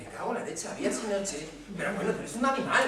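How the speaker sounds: lightly mocked parent's outburst, quickening at the end; exasperated parent. Teacher mimicking a parent reading a misspelt card, mock exasperation. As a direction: imitate an appalled parent, rising at the end. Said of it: "cojáis la cartita y decís".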